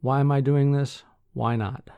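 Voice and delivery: projected reading of a quoted question; quote read aloud. Acted. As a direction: read the question out, then drop on the answer. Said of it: "I often ask myself that".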